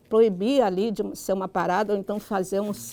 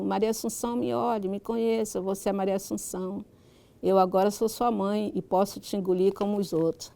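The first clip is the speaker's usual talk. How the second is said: literary reading aloud. Acted. Writer reads a passage from her book to listeners, reading aloud. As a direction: read the story out in measured, carefully articulated phrases.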